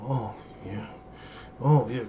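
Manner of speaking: low, hushed "Oh, yeah" of pure pleasure; deep murmured food bliss; blissful moan. Retold or imitated. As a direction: moan like the gumbo is heavenly. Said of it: "when you see their eyes close".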